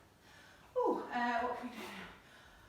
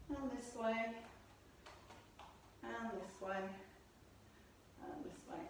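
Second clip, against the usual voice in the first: fading quieter; 6 dB quieter than usual. Real, not acted. Guiding a gentle stretch.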